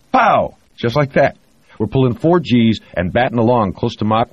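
loud, high, thrilled war story; excited storytelling. Acted. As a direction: relive the wild flight with gusto. Pilot tells thrilling flying story.

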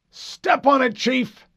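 high, loud, demanding officer voice; angry admiral. Acted. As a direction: bark like an impatient admiral. Admiral's last order.

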